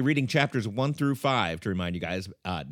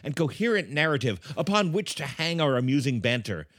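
show announcer; 3 semitones higher than usual. Acted. Introduces himself and the host.

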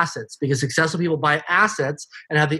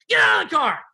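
retold yell, only mildly raised; Harry; 3 semitones higher than usual. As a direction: imitate a mentor's abrupt order. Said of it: "he's yelling at me".

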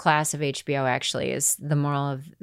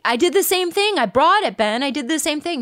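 high, pitched-up pleading; frantic protest; 10 semitones higher than usual. Retold or imitated. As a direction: insist desperately you did nothing different. Pleading with her manager.

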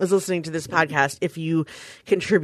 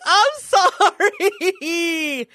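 slow apology through laughter; laughing apology; 11 semitones higher, much slower than usual. Retold or imitated. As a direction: laugh while saying sorry. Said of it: "I was like".

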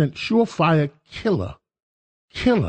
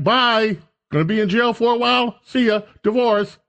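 quick, higher, breezy brush-off; breezy ex-wife; 6 semitones higher than usual. Retold or imitated. Wife cheerfully dumping her jailed husband, breezy and quick. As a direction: toss him off with a cheery goodbye. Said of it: "She's like".

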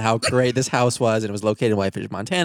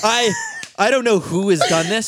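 high mocking voice; 12 semitones higher, 6 dB louder than usual.

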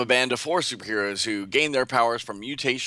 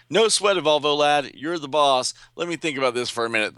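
put-on higher, louder brash young hero; cocky hero voice; 6 semitones higher, 4 dB louder than usual. Show-off hero answers his leader, a bit higher and louder. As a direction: play the show-off boasting to his teammate. Duplicate Boy voiced in comic recap.

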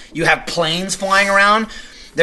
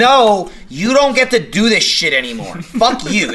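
mock telling-off; 5 semitones higher, 3 dB louder, slower than usual. Telling the gang leader off.

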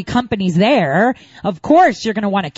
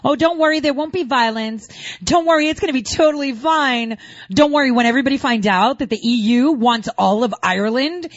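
higher, sing-song mock calm; lightly voiced IRA spokesman soothing everyone; mock reassurance; 3 semitones higher than usual. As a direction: parody the IRA man's soothing line. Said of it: "had the provisional I R A guy talking".

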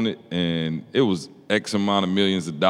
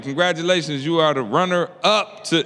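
lightly mimicked pageant announcer, raised pitch; 6 semitones higher than usual. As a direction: announce it like a big win, drawing out the title. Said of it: "they make it feel like".

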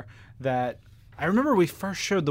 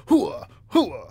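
Al Pacino impression; 4 semitones higher than usual. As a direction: bark it like a fired-up colonel. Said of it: "That's his Al Pacino imitation".

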